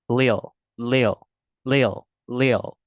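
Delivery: little said as one smooth "lil"; American little without T. Shown as a demonstration. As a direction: drop the T in little. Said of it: "they will speak without T".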